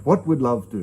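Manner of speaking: lightly imitated Indian accent; a small touch of an Indian accent; Deepak Chopra's accent. Guru's head pops up to advise him, lightly imitated Indian accent. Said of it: "in his little accent".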